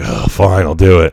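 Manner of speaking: slow, reluctant, grudging tone. Retelling how a person on the phone agreed to ask: imitating a reluctant reply. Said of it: "And reluctantly".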